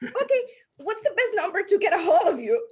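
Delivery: high, loud scripted question; acting out an eager learned line; memorized networking script. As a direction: recite the rehearsed closing question brightly lifted in pitch. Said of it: "I learned the prospecting scripts".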